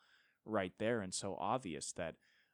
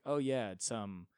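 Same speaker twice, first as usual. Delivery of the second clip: mock Gen Z voice; 2 semitones higher than usual. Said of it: "the most Gen Z thing in the world to be like".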